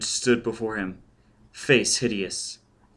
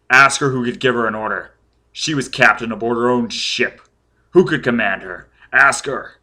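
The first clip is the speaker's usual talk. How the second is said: loud, insistent interrogation; shouting; 6 dB louder than usual. A narrator's reading. Foyle demanding the child ask her, raised voice. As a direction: press hard with raised voice. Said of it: "Foyle was shouting".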